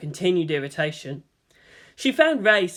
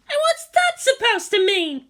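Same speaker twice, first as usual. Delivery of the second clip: put-on much higher, louder indignant girl's voice; indignant Asuka; 4 dB louder than usual. A narrator's reading. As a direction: demand an answer, annoyed. Asuka, hands on hips.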